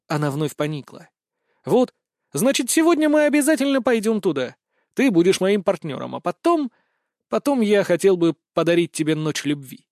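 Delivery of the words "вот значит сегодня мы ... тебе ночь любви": eager. Acted. Hero pushes playful seduction.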